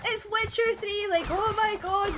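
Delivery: high, loud, drawn-out fan excitement; so excited. Retold or imitated. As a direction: imitate a geek gushing over a find. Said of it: "like, so excited".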